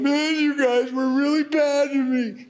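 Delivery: high, whiny complaining voice; mock-hurt high whine; whiny grudge. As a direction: sulk it out like a wronged kid. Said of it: "He's not going".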